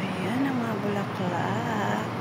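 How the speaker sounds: breathless from the climb; panting softly between words; out of breath. Real, not acted. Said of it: "Hinihingal akong mag, ano, umakyat".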